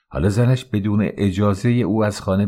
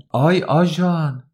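much higher, slow drawn-out yell of آی; yelling for police; 8 semitones higher, slower than usual. A narrator's reading. Woman yells to the gathering crowd, drawn-out cry. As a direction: stretch the آی into a long cry for help.

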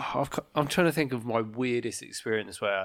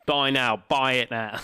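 punchy, loud pop-up prompt; mock sales urgency; 4 dB louder than usual. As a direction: push it like an urgent sales button. Voicing a pushy sales prompt.

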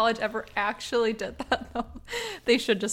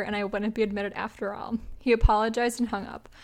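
measured, even read-aloud voice; story narration. A narrator's reading. Host reading a listener's prank story to co-host, measured narration. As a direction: read it out like a short anecdote.

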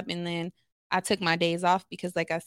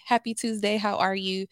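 upbeat work greeting; forced cheerful hello; chipper greeting. Retold or imitated. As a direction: sound cheerful for the client. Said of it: "that's my energy".

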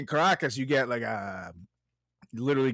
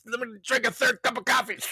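tired office worker; 11 semitones higher than usual. Retold or imitated. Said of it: "you hate your job".

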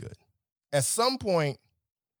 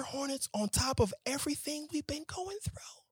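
hushed despairing whisper; 6 dB quieter than usual. Real, not acted. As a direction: whisper it like a grim secret. Despairing aside.

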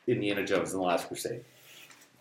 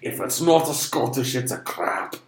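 mock Scottish accent. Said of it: "I can do Scottish".

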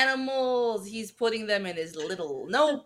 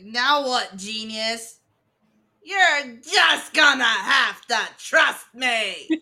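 acted movie quote; 7 dB louder, slower than usual.

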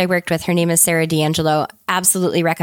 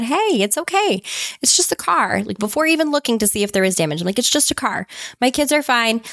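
reassuring; 4 semitones higher than usual. Retold or imitated. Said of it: "And I said".

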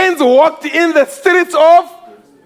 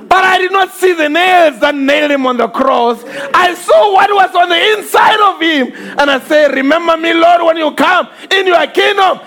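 preaching at full force; 4 semitones higher than usual. Acted. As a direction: preach the thief's words with fire. Preacher voicing the thief.

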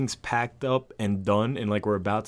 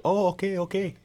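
higher-pitched, stumbling mock placating; flustered backpedal; 9 semitones higher than usual. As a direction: back down hastily in a high voice. Retold flustered backpedal in Spanish exchange.

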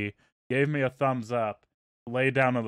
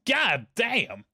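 imitating the shout again, less fully; mock yell; 8 semitones higher than usual. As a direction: toss off a lighter replay of his yell. Repeats the friend's outburst.

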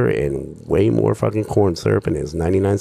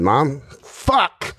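whiny yell; 7 semitones higher than usual. Retold or imitated. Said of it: "I said".

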